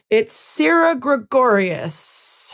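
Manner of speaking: put-on slow New Zealand accent; Kiwi accent. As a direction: announce the name in a light Kiwi accent. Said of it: "How was my Kiwi accent?".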